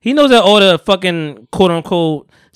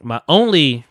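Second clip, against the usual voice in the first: "only" lifted and leaned on; stress on "only"; slower than usual. Real, not acted. Stating his one issue with the rapper, stressing "only". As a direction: lean hard on the word "only". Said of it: "capitalize on only".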